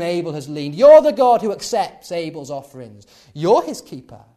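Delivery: a hint of smug accusation, words punched loud. Cain smugly accuses God of failing Abel. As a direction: throw the blame back at God, self-satisfied. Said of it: "smug tone of voice".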